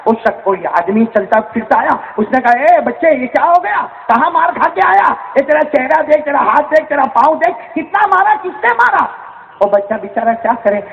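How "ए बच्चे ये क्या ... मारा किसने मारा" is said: alarmed concern. Acted. Stranger asks wounded child, alarmed.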